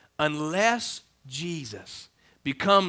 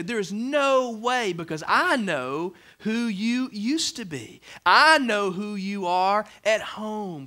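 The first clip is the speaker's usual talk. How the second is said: skeptical accuser; 4 semitones higher, slower than usual. Retold or imitated. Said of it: "people are gonna look at you and say".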